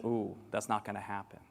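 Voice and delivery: low, soft deflated aside; mock aside. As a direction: quietly reveal the truth. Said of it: "that means".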